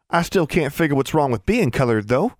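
put-on high, puzzled country girl; high-pitched rustic child voice; Innocence. A narrator's reading. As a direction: wonder aloud as a naive little sister.

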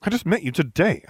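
high-pitched bewildered objection; protesting. Acted. Protesting the claim of enmity.

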